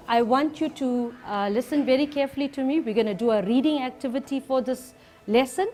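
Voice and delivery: ordinary talk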